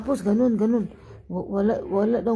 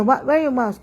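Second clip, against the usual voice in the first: imitated shouting; 2 semitones higher, 4 dB louder than usual. Driver demanding a passenger's mask, mock shouting. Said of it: "sumisigaw siya palangga".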